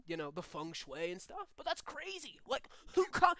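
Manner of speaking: laid-back surfer-dude demon; lightly voiced dude, pitch jumping on exclamations; Crush from Finding Nemo. Demon thanking a visitor to hell, lightly voiced surfer dude. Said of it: "sound like Crush from Finding Nemo".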